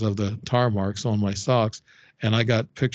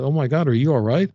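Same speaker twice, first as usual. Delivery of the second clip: mild mock scream, pitched up; retold scream; 4 semitones higher, 4 dB louder than usual. Woman checking on the man after his fall, half-voiced retold scream. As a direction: imitate an alarmed bystander calling out, a little raised. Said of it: "And then she screamed".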